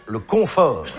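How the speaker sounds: "confort" said slowly, CON leaned on; stress on first syllable. Shown as a demonstration. Comedian names the house of merdier, slow stress on CON of "confort". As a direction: stretch the word "confort", landing on CON. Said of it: "la première syllabe est très claire".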